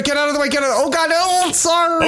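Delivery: high panicked yelps, sliding down; sledding downhill. Pretend. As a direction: yelp like you're careening downhill on a sled. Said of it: "it's just a lot of like".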